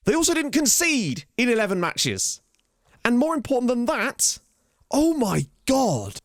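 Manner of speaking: high, slow, disbelieving; legitimately shocked. Real, not acted. A vlogger reading out a rival's defensive record, stunned. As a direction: say it like you cannot believe the numbers. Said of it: "I'm legitimately shocked here".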